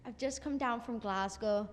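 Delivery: a light Glasgow accent, barely put on; shy singer tries a Glasgow accent on request; Scottish accent. Shown as a demonstration. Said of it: "let's hear your Scottish accent".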